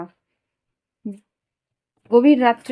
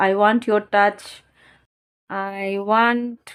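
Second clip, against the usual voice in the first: card read aloud; much slower than usual. Real, not acted. Reads card text aloud.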